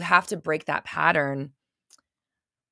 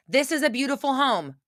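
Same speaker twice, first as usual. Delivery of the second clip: higher, chanted affirmation; 6 semitones higher than usual. Shown as a demonstration. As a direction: say it like a mantra. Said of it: "How do you think this is a beautiful home".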